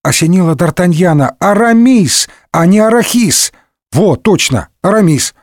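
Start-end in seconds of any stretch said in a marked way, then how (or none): 1.4-5.3 higher, delighted naming; light up as the name clicks; excited realization. Acted.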